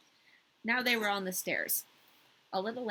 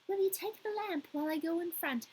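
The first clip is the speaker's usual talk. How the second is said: a touch of a grand court crow; fancy court crow; 8 semitones higher than usual. Acted. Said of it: "this is the fancy court crow".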